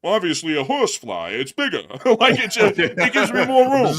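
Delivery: high laughing joke answer. Real, not acted. Joking to his co-host, laughing high. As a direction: laugh through the punchline.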